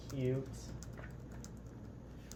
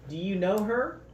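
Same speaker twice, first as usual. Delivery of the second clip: excited; 6 semitones higher, 6 dB louder than usual. Acted. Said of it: "Herbie asked excitedly".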